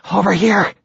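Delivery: shouted high across the water; calling out. Acted. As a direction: call out to be found.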